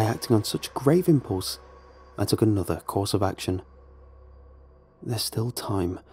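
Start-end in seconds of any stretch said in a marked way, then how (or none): 5.0-6.0 soft anxious mumble under the breath; mumbled to himself. Acted. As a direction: mutter it to yourself, half-hidden. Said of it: "I mumbled to myself".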